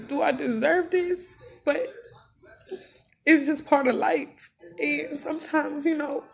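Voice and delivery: crying while talking. Real, not acted. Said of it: "Sorry that I cry every time I get on here".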